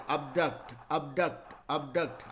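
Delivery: abduct said uhb-duct, repeated steadily; model pronunciation. Shown as a demonstration. Teacher drilling abduct for the class to repeat. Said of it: "इसको चार बार बोलेंगे".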